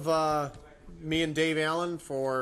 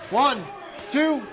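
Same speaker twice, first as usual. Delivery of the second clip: shouted referee count; 5 semitones higher than usual. Real, not acted.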